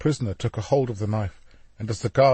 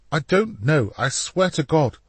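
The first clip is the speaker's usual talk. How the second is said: higher, desperate protest; frightened denial; 6 semitones higher than usual. A narrator's reading. Leonardo, knife at throat, swears in panic. Terrified man pleading at knifepoint.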